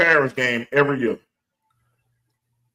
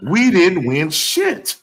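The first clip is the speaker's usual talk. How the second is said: indignant telling-off; 4 semitones higher, 5 dB louder than usual. Acted. Fan rebukes the owner's leadership, indignant. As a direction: stretch each word to drive it home.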